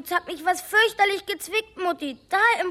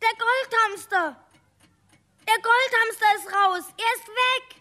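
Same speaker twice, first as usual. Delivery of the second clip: alarmed cry; 3 semitones higher than usual. Acted. Boy finds hamster escaped.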